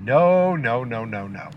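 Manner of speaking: quick falling string of no's, playfully guilty; sheepish mock denial. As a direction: deny it like a caught kid. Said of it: "I'm definitely not driving and looking at Wikipedia".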